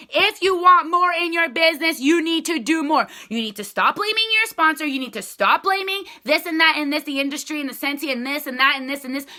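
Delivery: imitating a blunt hard-ass leader; tough boss talk. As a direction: lay down the law to a slacking team. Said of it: "leaders who are hard ass are like".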